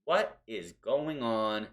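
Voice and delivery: slow, drawn-out mock pondering; lightly voiced puzzled Heyman; mock puzzled wondering. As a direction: muse it out slowly like a confused manager.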